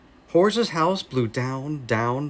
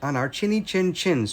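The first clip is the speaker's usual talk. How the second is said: trembling; 4 semitones higher than usual. Acted. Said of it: "trembled Boris".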